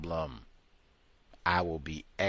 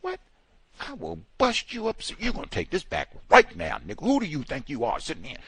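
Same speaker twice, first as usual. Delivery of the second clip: angry customer; 7 semitones higher, faster than usual. Retold or imitated. Imitating an angry customer threatening the driver. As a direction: rage at the driver, half-hammed. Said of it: "that's kind of the way he talking".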